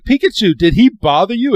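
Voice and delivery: lightly voiced fussing mother; concerned mom. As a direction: ask the Pikachu gently but worried. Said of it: "And she's like".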